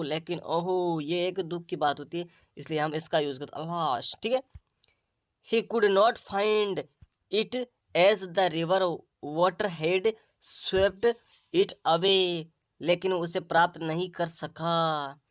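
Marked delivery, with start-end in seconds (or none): 5.5-12.4 reads the English sentence word by word, very slowly; measured classroom reading aloud; slow story reading. Acted. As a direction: dictation pace for the class, each phrase spaced out.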